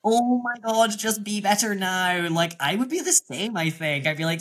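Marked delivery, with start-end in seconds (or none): 0.0-2.3 high, louder exasperated cry; exasperated Claudia. Retold or imitated. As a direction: despair at useless contestants.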